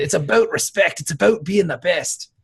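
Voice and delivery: a lightly voiced, punchy wrestler promo; quoting the wrestler's catchphrase, a hint of promo voice; Bret Hart catchphrase. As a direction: deliver it like a wrestler cutting a promo, only lightly. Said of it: "he always used to say that".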